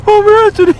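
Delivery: very high mock squeal of the name; A J's voice for him. A J greeting him, very high mock squeal. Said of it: "He might even use the same voice".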